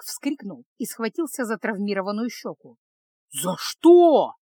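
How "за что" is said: loud yelping cry of pain; pained yell. A narrator's reading. Burned bandit crying out to the mage, yelling. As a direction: yelp it out, hurt and outraged. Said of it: "завопил он".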